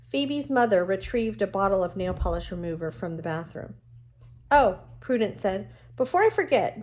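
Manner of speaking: reading a novel aloud to the class, even and clear; steady read-aloud storytelling voice; story narration. A narrator's reading. Teacher reads novel aloud to class.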